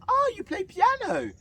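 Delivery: high, loud, slow imitation; teacher's gushing surprise. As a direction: draw it out in exaggerated amazement. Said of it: "and she goes".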